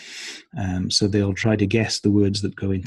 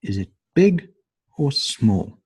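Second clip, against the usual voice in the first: "big" pitched high, "small" falling away; or-question tune; 5 semitones higher than usual. Shown as a demonstration. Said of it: "goes up and down".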